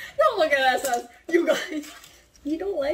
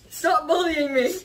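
whiny protest through laughter; laughing protest. Real, not acted. Protests teasing while laughing.

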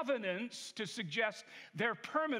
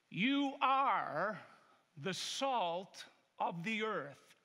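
scripture reading. Acted. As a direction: read the Word with weight, letting each phrase land. Pastor reads the Bible passage aloud.

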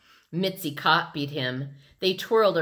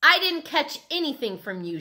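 high-pitched indignant denial; shout; 10 semitones higher, 3 dB louder than usual. A narrator's reading. Sheila denies catching it from Peter, indignant shout. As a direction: raise the pitch in protest. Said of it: "Sheila shouted".

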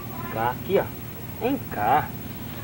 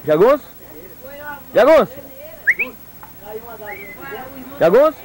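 raised, rising call to a dog; 6 semitones higher than usual. Real, not acted. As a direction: call the dog from across the yard. Calling the dog by name.

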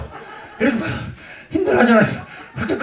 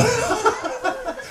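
embarrassed giggle; 6 dB quieter than usual. Real, not acted. Embarrassed about winking.

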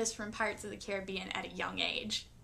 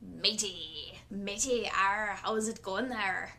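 slow hammed-up pirate accent; pirate greeting; 3 semitones lower, slower than usual. Shown as a demonstration. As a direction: greet a mate like a cartoon pirate. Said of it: "call all of your friends matey".

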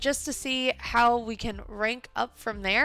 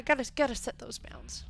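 whisper; 5 dB quieter than usual. Real, not acted. Whispered aside.

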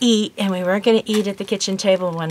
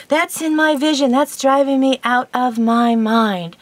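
higher, louder, retelling his annoyed rant; mock exasperated complaint; 4 semitones higher, 3 dB louder than usual. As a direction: play the fed-up husband, lightly. Husband complains angrily.

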